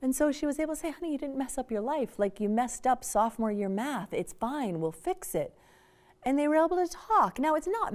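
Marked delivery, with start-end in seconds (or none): 0.9-5.6 reassuring. Retold or imitated. Mother reassuring daughter.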